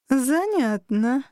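slow, sarcastic drawl of Занятно; slowly drawled, mocking Занятно. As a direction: stretch it out, dripping with irony. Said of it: "язвительно протянула собеседница".

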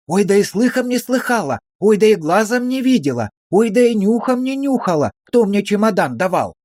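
high, pleading sing-song; high wheedling lament. A narrator's reading. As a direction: wail back in hurt protest. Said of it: "приняла прежнюю позу". (высокое жалобное причитание)

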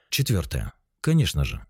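normal talking voice

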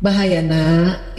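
pelan, tegas namun lembut; tegas tapi lembut. Shown as a demonstration. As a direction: larang anak dengan lembut tapi tegas. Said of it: "Itu tegas tapi lembut disampaikan". (ibu melarang anak, tegas tapi lembut)

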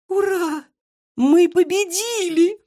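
very high, slow cheering cry; triumphant shout. Acted. Marysya cheers the victory, very high. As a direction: cheer the win with all your might. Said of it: "закричала Марыся".

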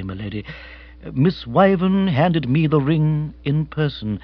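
lightly voiced, low-key butler; formal manservant. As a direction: report with deferential precision. Jeeves reports to the lady.

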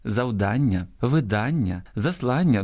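завдання, видання, заслання all stressed on -ДАН-/-ЛАН-; same stress. Shown as a demonstration. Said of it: "однаково наголошуються". (наголос на передостанньому складі: завдання, видання, заслання)

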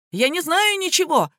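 high-pitched yelled denial; cornered man's bawling; panicked yell. A narrator's reading. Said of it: "орал Таратайкин".

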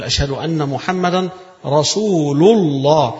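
أشهد أن محمدا رسول الله with محمدا ending clearly in -an; correct reading. Shown as a demonstration. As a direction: say محمدا with the full accusative ending. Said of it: "يبقى تقول".

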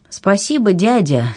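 a touch of tender emotion. A narrator's reading. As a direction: thank him with feeling. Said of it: "тоже растрогалась Анна".

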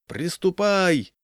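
drawn-out, high work-gang call; booming command. A narrator's reading. Village leader starting the men on the ropes, booming call. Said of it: "зычно крикнул Егор".

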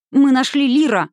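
put-on excited children shouting the news. A narrator's reading. Children bursting in shouting the news. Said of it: "закричали они".

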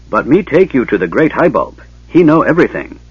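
lightly voiced simple-minded dwarf, insistent; eager gully dwarf. A narrator's reading. Gully dwarf offers to guide the mage, eagerly.

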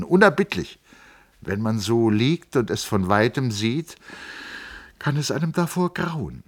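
put-on young man explaining his family; lightly voiced Hans Castorp. A narrator's reading. Castorp telling Settembrini about his uncles, lightly voiced.

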